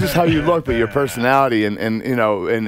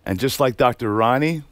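poem recital; 4 semitones lower, 4 dB quieter than usual. Acted. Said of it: "All right, this is Kurt Angle".

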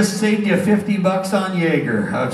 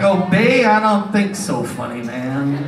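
lightly imitated refusal, dropping low at the end; mock defiant woman; 4 semitones lower, slower than usual. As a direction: play a heckler balking at an order. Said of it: "She's like".

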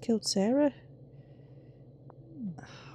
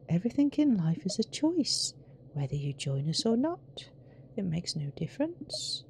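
sinister game character; 7 dB quieter than usual. Acted. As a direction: intone it like a solemn cult leader. Reads out game character's lines.

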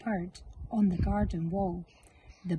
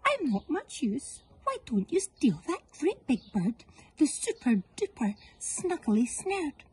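higher sly goose voice; hissing goose; 6 semitones higher than usual. Acted. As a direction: wheedle them toward another target. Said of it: "she hissed at them".

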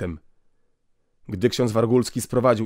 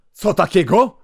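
higher, loud outraged cry; outraged shout; 8 semitones higher, 7 dB louder than usual. Acted. Russian inspector to the priest, an outraged shout. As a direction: shout it in disbelief. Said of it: "krzyknął Rosjanin".

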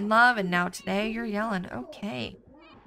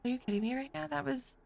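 indignant disbelief; 6 semitones higher than usual. Real, not acted. Outrage at earning no money.

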